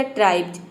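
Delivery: ट्राइब्स said with a half b run into a z sound at the end; pronunciation demo. Shown as a demonstration. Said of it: "आधा ब और ज के sound में". (ट्राइब्स का उच्चारण, अंत में आधा ब और ज)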